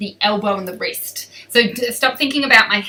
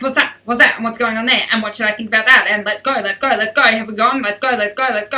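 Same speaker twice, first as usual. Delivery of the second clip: a touch louder, jittery flighty horse; lightly voiced anxious horse itching to bolt; nervy racehorse rattling off questions in mock panic; neurotic thoroughbred; 5 dB louder, faster than usual. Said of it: "more neurotic".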